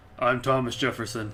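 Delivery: deep, put-on character voice. Voicing the third of three introduced figures in a put-on deep voice. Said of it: "I just wanted to give him a deep voice".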